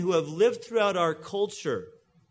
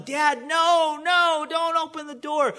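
higher-pitched, louder cry of warning; retold warning yell; 8 semitones higher, 4 dB louder than usual. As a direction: call out to dad as if through a burning house. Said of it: "he's yelling".

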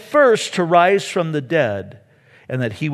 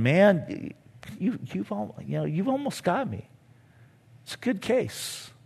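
softer, earnest admission; quietly conceding, half persuaded; king admitting he's moved, softly; sincere conviction; 4 semitones higher, 8 dB quieter than usual. Retold or imitated. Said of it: "expression of sincere conviction".

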